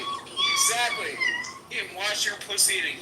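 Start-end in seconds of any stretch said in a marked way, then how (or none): 0.0-1.1 a much higher, slow, drawn-out squeaky exactly; teasing falsetto Exactly, dragged out; mock squeal. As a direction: stretch Exactly way up high and slow. Second take squeaked and drawn out.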